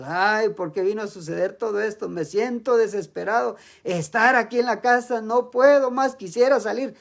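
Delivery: builds from a sigh to a loud cry of despair; desperate at home. Retold or imitated. Believer stuck at home, complaining, rising to a loud desperate cry. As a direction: let the frustration swell until you are nearly shouting. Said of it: "nos sentimos desesperados".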